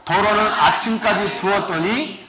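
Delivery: slow, measured Bible reading; scripture reading. Acted. Pastor reading the Exodus passage to the congregation, slow and solemn. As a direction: lay each phrase of the verse down slowly. Reads scripture aloud slowly.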